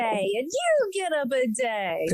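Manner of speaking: slow, booming giveaway announcement; Oprah giveaway voice. Retold or imitated. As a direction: hand out prizes like a talk show host. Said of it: "like Oprah giving out cars".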